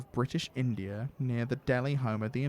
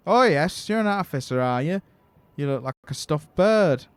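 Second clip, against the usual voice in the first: mock laughing tease; 3 semitones higher, 8 dB louder than usual. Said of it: "I laughed".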